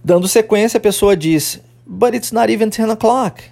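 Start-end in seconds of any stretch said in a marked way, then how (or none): 1.9-3.4 higher-pitched mild surprise; acted taken-aback reply on the phone; startled. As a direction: protest in surprise, pitch lifted throughout. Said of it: "se assusta".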